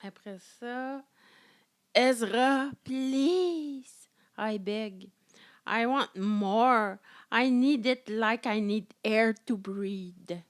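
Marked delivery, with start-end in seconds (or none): 1.9-10.4 slow, louder hammed-up begging; mock pleading. Voicing Kat begging Ezra, hammed-up pleading. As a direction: beg it over the top.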